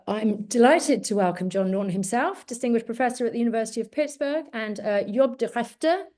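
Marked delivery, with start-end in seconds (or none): 5.0-6.1 attempted Dutch accent with a throaty Dutch G in Groningen; best Dutch accent. Shown as a demonstration. Host introducing a speaker, trying a Dutch accent on the names. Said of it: "That is my best Dutch accent".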